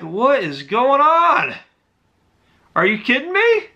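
reliving the moment the vision went black; retold panic. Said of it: "I was freaking out".

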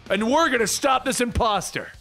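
half-hearted heroic yell; mild mock yell. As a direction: declare it with determination. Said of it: "and yells".

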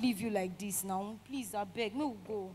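quiet plea to a distressed friend; pleading. Acted. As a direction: coax gently, almost under the breath. Friend begs crying girl to come.

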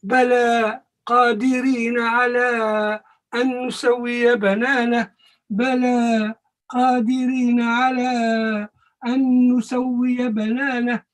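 measured, melodic recitation of the verse; Quran recitation. Shown as a demonstration. Teacher reciting the verse for his class, chanted. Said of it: "teacher recites the verse".

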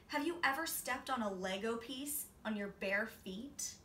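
ordinary delivery

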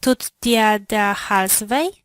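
normal talking voice

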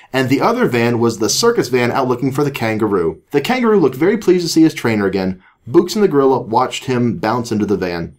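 animated read-aloud voice; story narration. A narrator's reading. Reads a children's story aloud.

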